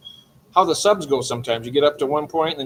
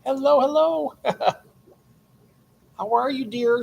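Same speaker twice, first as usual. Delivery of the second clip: much higher, louder, delighted hello; excited greeting; 11 semitones higher, 4 dB louder than usual. Real, not acted. Streamer greets Bunny arriving in chat, excited and much higher. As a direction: sing out a happy welcome to a friend.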